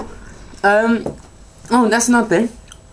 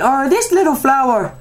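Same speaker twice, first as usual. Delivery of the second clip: put-on drunk Irish lady; 6 semitones higher than usual.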